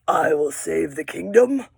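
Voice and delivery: whispered lion line, lightly voiced; a hushed hint of a brave lion. Teacher voicing the lion in a storybook, lightly. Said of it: "The lion says".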